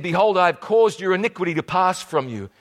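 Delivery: hurried reading of the verse; rushing through the scripture line; read too fast. Shown as a demonstration. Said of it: "I'm reading this just too fast".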